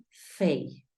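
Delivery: fey said as English "fay", a long A glide; English syllable. Shown as a demonstration. Teacher showing the first syllable of favor, fey. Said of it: "la primera sílaba debe sonar".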